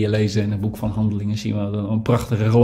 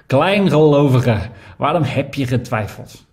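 Jesus gently rebuking; 4 semitones higher, 3 dB louder than usual. Acted. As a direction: hold him and name his doubt. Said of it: "Hij greep hem vast en zei". (Jezus berispt zacht, Kleingelovige langzaam en luider)

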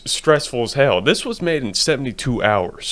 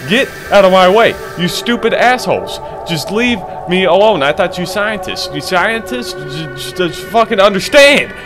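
angry yelling; 5 semitones higher than usual. Retold or imitated. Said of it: "I would be yelling and being like".

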